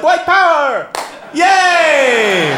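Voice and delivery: high, loud mock rock-star yell; shrieked parody of a crowd rouser; hammed-up shout. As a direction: yell it like an overdone stage move. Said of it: "So I tried to incorporate the one and back into my act".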